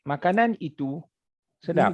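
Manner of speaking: Makanan itu held up, short break, then sedap; teacher's split between itu and sedap; pause after itu. Shown as a demonstration. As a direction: pause briefly before sedap. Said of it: "Ada itu".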